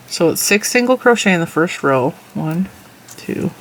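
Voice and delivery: talking around a stitch marker; words past something held in the mouth; mouth full. Real, not acted. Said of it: "I have a stitch marker in my mouth in case I'm talking funny".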